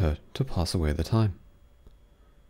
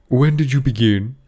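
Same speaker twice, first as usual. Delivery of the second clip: king questioning; 5 semitones higher, 6 dB louder than usual. A narrator's reading.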